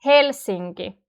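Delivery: "Helsinki" with only "Hel" stressed; front-stressed Finnish "Helsinki"; stress on first syllable. Shown as a demonstration. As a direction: land on "Hel" and let "sinki" fall away. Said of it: "The rest are not stressed".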